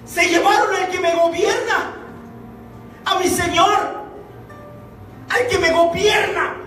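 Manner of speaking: impassioned lament at the empty tomb, shouted in bursts; Mary Magdalene grieving. Acted. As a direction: cry out as the woman who lost her Lord, between grief and joy. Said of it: "Ella está diciendo".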